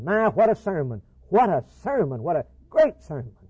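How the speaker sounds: hammed-up delight at a fine sermon; impressed exclaiming. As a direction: gush over the sermon like a thrilled churchgoer. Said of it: "they were impressed".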